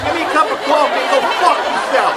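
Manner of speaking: high, brash New York heckle; hammed-up New York street voice; New York accent. Shown as a demonstration. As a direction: do an exaggerated New Yorker calling someone out. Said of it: "here's a New York accent for you".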